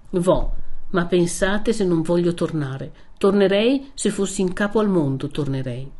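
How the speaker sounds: firm vow fading to a murmur; Renzo's parting vow. Acted. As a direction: promise it as you go. (Renzo promette, poi si spegne)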